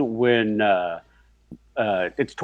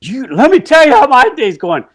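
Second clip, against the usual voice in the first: higher and louder, worked up; imitating an angry man; 11 semitones higher, 7 dB louder than usual. Fired man rants at his boss, worked up. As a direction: build into a ranting whine. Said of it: "and he's like".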